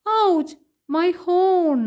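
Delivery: high, slow mock wail; crying bus. Blue bus cries over its fallen horn, slow mock wail. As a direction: lament lightly as a hurt toy bus. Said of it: "കരയുന്നുണ്ട്".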